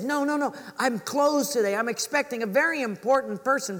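high, insistent mock pleading; flustered refusal. Cobbler turns away mother while expecting important guest, flustered. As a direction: act out shooing someone away politely but urgently.

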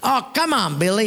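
high-pitched coaxing call; playful acted pleading. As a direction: urge a reluctant friend up. Crowd coaxes Billy.

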